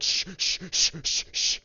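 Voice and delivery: unvoiced hushing shh sounds; shushing. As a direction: hush him urgently with breathy shh. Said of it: "we all just started shushing him".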